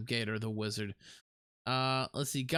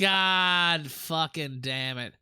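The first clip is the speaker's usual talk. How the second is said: drawn-out frustrated curse; 3 semitones higher, 5 dB louder, much slower than usual. Real, not acted. Frustration at forgetting.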